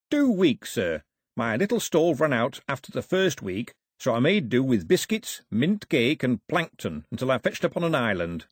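lightly voiced plain-spoken seaman; a hint of a chatty sailor; cheerful old sailor. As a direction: tell your tale like a ship's cook.

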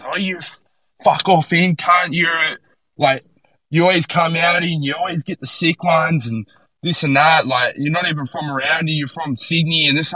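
hammed-up high-pitched rant at the blow-in; retold blow-up. Local surfer abusing him in the lineup, mock angry high rant. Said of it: "he fucking started blowing up at me".

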